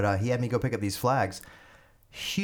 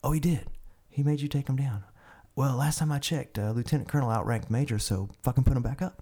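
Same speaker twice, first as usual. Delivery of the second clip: indignant colonel; 5 semitones higher than usual. Retold or imitated. Colonel overriding the major.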